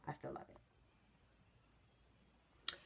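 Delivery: slow, breathy whisper. Real, not acted. Talking about her beloved hat, in a slow whisper. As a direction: drop to a fond whisper.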